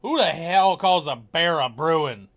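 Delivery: loud, slow exasperated question. Real, not acted. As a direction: demand it in disbelief. Ranting about mascot names.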